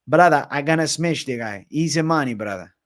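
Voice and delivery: put-on jokey Dagestani fighter boast, no real accent shift. Streamer jokes to chat he looks Dagestani, mock Dagestani accent. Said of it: "A Dagestani A J".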